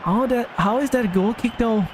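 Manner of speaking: high-pitched Scouse accent impression; Trent, Scouse accent. Gamer mimics a footballer disputing a goal kick, Scouse accent. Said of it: "How's my Scouse accent?".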